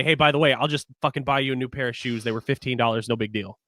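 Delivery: quiet, offhand, brushing it off; dismissive. Retold or imitated. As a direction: shrug it off like it's nothing. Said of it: "immediately be rational and say".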